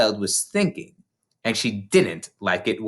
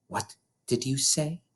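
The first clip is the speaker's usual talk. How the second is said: softer but sharp headmistress; asked sharply; 3 semitones higher, 7 dB quieter than usual. A narrator's reading. Headmistress turning sharply on the small girl. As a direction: cut the question off short. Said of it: "she asked sharply".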